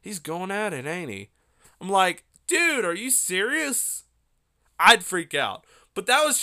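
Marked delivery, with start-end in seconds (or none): 0.0-1.3 soft, close-to-the-mic nonchalance; Joe Rogan. Retold or imitated. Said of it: "He would get close up to his Shure S M seven B microphone". 2.5-4.0 high, drawn-out disbelief; incredulous. Pretend. Acting own incredulous reaction.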